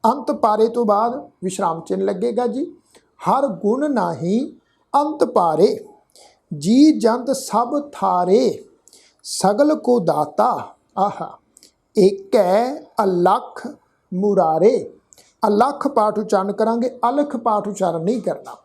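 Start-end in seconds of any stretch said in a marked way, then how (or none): 3.2-14.8 slow, measured recitation of scripture. Shown as a demonstration. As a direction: lay out each word slowly so learners can follow. (धीमा, ठहरा हुआ पाठ)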